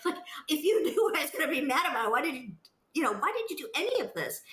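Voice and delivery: laughing in disbelief, quick and high; a bitter laugh at the absurdity; incredulous laugh. Real, not acted. Laughs at his absurd excuse.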